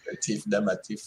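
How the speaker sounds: put-on a light Jamaican accent. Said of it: "My Jamaican accent".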